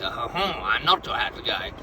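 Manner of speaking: a hint of a put-on mime voice; mime character. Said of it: "But he speaks, and he's like".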